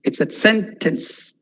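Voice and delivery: "sentence" slow, its second syllable dipping; split sentence. Shown as a demonstration. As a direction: sentence split in two, falling on the end. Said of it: "when I said sentence".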